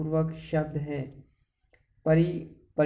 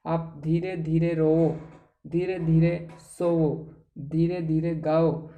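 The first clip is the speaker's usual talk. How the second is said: slow, drawn-out example words; slow demo; slower than usual. Shown as a demonstration. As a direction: say each example slowly. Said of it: "मैंने कुछ भी आपसे कहा जैसे". (धीमे से उदाहरण)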